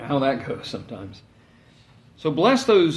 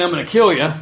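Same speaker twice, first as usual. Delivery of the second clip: louder, blunt spoken threat; 7 dB louder, faster than usual. Retold or imitated. Drill instructor threatening a recruit, spoken loud and blunt. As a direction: say it straight out as a threat. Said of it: "but it wasn't so direct".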